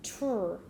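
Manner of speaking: "tr" blended with no gap; t flowing straight into a held r in "tr"; sounds blended. Shown as a demonstration. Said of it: "we say 'em really fast".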